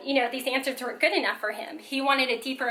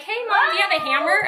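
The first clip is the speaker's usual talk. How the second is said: a hint of an eager little boy, higher; lightly voiced young son; 7 semitones higher, 4 dB louder than usual. Son asks mom for a hammer, lightly imitated child. Acting out her son's question.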